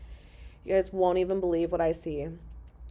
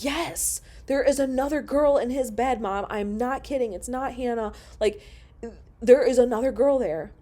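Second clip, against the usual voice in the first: retold upset insisting; 5 semitones higher, 3 dB louder than usual. Insisting to mom on phone.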